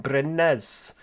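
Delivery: Brynnes in a light put-on Welsh accent, rolled and sing-song; mock Welsh accent. Gamer naming a bus town, in a playful mock Welsh accent. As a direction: say Brynnes like a Welshman, half-joking. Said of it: "Do you like my Welsh accent?".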